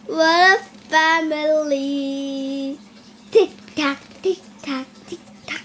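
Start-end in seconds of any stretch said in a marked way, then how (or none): 3.3-5.6 fading to a whisper. Pretend. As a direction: tick tock sinking into a whisper. Repeating tick tock, fading out.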